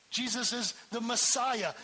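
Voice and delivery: usual speaking voice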